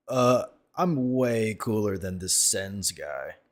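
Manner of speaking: slow, dopey mocking voice; mock smug boast. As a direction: drag it out like a smug fool. Mocking the rival's smug claim.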